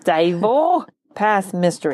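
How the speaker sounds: a slow try at "Dyatl" with a German ring; slightly German. Shown as a demonstration. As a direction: say "Dyatl" slowly, as if a little German. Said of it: "That sounded a little German".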